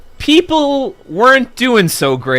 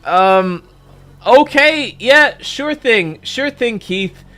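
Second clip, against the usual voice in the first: reluctant; 6 semitones higher, slower than usual. Retold or imitated. Humoring Keith's fish tacos.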